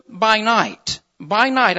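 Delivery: "by night" set apart with a firm fall; emphasized words. Shown as a demonstration. Preacher underlines the verse's last words, emphatic. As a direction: land firmly on "by night", then repeat it. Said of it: "I really want to emphasize those words".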